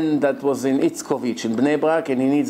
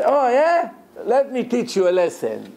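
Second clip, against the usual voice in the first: sharp high "oh yeah" then a threat; angry retort; 7 semitones higher than usual. Retold or imitated. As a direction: fire back at the cheeky passenger. Driver snaps back at passenger.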